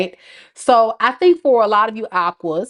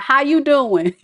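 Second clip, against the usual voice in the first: mock flirt; 4 semitones higher than usual. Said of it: "hit you up talking about".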